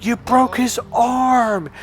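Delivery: high, slow, drawn-out outrage, retold; flipped out. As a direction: stretch it out in appalled disbelief. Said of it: "that flipped me out".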